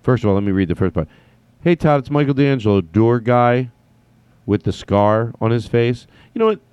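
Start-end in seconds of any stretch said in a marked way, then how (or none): 1.6-6.1 loud, raised reading voice; big projected email greeting. Acted. Reads the email's opening out loud.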